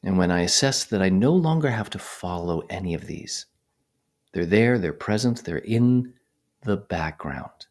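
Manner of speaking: unhurried phrases set apart by long silences; guided meditation. Real, not acted. Meditation teacher guiding attention to the breath, calm measured voice. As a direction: talk listeners through it calmly, leaving space.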